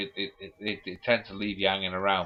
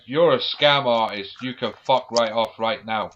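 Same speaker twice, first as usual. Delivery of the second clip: telling off a scammer; 5 dB louder, slower than usual. Retold or imitated. Telling off scam caller.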